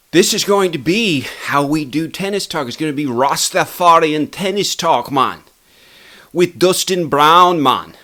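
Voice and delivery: high-pitched mock Rastafarian accent; terrible Rastafarian accent. Host announcing the show's new style, terrible Rastafarian accent. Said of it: "that's my terrible Rastafarian accent".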